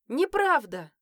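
high, loud wailing denial; howl. A narrator's reading. Son wailing at his mother, high loud howl. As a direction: keep howling it like a crying boy. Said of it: "продолжил выть Матвей".

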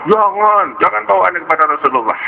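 high, wailing plea, easing down; pleading child. Acted. Boy begs not to be taken to the Prophet, pleading. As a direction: cry out in protest like a caught boy.

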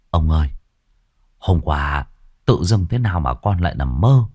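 wheedling, eager servant coaxing his master; butter up the old man; sly servant voice. Acted. Sửu Thọt whispers flattering to Lý. (giọng đầy tớ xu nịnh)

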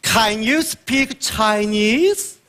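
Chinglish English. Retold or imitated. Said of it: "你跟人聊什么了".

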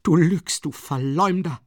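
hoch, laut geschrien; rasende Wut. A narrator's reading. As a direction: voller Hass anschreien. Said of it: "besinnungslose Wut". (wütend geschrien)

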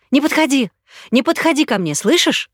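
terrified woman warning him off, crying; sobbing, frightened. Acted. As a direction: shout it through sobs of fear. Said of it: "захлёбывалась от рыданий".

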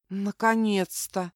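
slow, relieved exhale; relieved sigh. Acted. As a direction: breathe it out with relief. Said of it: "облегчённо выдохнул Лоран".

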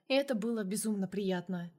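usual speaking voice

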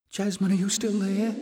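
high, sharp and anxious; sharp panic. Acted. Little sister panicking that Jasmine has gone. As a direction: call out in a panic. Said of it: "suddenly sharp with panic".

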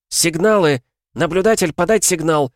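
very high, loud commanding yell; shouted orders. A narrator's reading. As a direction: bellow orders over the storm. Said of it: "крикнула она". (командный крик сквозь бурю)

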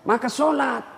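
ordinary talk

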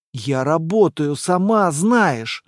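slow, drawn-out excuse; defensive. Acted. Boyfriend justifying himself to angry girlfriend, defensive. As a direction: plead your case slowly. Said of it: "оправдывался парень".

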